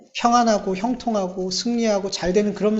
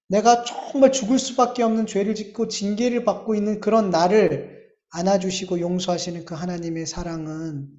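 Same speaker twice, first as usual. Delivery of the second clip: normal talking voice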